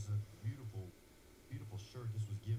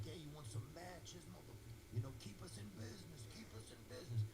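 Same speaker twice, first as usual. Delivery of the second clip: joking firefighter; 5 semitones higher, 8 dB quieter than usual. Retold or imitated. Firefighters joking about matches.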